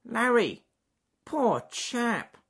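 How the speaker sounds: high, loud pitying beaver voice; sad voice. A narrator's reading. Beaver finding his friend hurt, high and sad. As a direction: lament your friend's plight in a high voice. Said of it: "in a sad voice".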